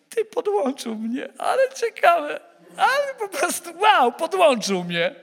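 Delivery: high, slow, half laughing, half crying with wonder; awed delight. Retold or imitated. Preacher reliving his own thrilled thought at being charged, amazed and tearful. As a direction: let the awe spill out in a cracking laugh.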